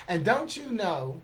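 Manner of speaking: rapid-fire verse, words tumbling out; poem recital. Acted. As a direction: race through the tongue-twisting lines to a firm finish.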